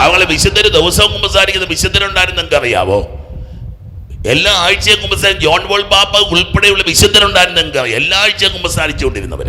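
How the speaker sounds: high, loud sermon delivery; forceful preaching. Real, not acted. Preacher citing saints who confessed weekly, forceful preaching.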